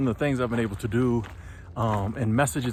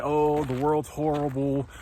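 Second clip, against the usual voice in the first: mock doom-monger. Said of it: "just get out there and say".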